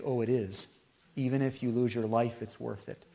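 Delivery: hushed acceptance that it is worth it; quiet resolve. Retold or imitated. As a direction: settle it gently, almost under your breath. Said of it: "then you might say".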